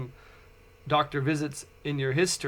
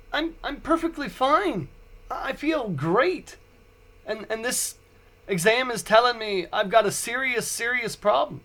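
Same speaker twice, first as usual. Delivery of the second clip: protesting; 5 semitones higher than usual. Retold or imitated. Protesting to wife, high voice.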